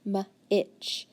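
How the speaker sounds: m-itch split, M then itch; sounding out. Shown as a demonstration. Teacher to student, sounding out. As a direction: segment m-itch. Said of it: "there's that T C H".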